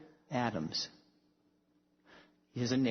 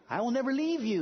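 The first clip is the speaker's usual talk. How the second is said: raised, gentle voice of Jesus; tender promise; 11 semitones higher, 3 dB louder, faster than usual. Retold or imitated. Quoting Jesus to the congregation, raised and tender. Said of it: "he said".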